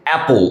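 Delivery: "অ্যাপল" opening on the vowel "ae"; short A sound. Shown as a demonstration. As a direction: say "অ্যাপল" with an open front "ae". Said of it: "এই যে অ্যা".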